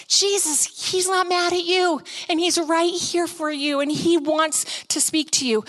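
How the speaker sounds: high, earnest prayer; praying over someone. Retold or imitated. Speaker prays over the repenting woman, earnest praying. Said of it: "I began to pray over her".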